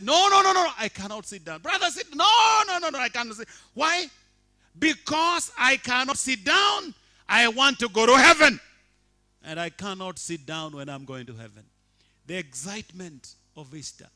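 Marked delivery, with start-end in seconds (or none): 0.0-1.6 high loud no, no, no; shouted refusal. Retold or imitated. Congregant refusing to sit, shouted high. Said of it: "the other one said". 1.6-11.6 high loud back-and-forth yelling; shouted exchange. Retold or imitated. Leader and dancer arguing over sitting, loud shouts. Acted church quarrel, both voices.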